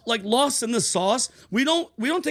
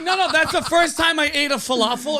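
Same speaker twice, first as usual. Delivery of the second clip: laughing mock guide; 5 semitones higher than usual.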